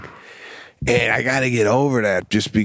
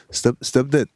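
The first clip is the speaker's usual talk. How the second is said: lightly German-accented command; a tentative German accent on short words. Shown as a demonstration. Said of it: "with a German accent".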